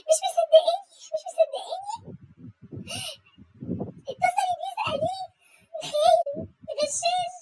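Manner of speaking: half-laughing fake sobs; mock tearful wife to her aunt; comic crying. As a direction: wail at the mother-in-law, hammed up. Crying to mother-in-law.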